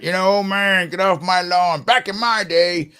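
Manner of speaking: a hint of the old man yelling at kids; grumpy old man. Host mocks himself as the get-off-my-lawn old man, lightly voiced. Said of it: "I'm that old man".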